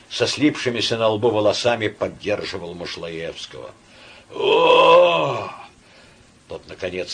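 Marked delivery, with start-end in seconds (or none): 4.3-5.5 loud pained groan. A narrator's reading. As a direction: groan out in agony. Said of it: "со стоном". (мучительный стон)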